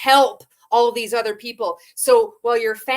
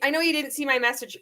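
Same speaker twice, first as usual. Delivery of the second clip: mock follow-up message; 3 semitones higher than usual. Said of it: "four-day follow-up".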